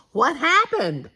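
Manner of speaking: breathy whispered question; girl whispering to grandfather. A narrator's reading. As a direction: whisper so as not to wake anyone.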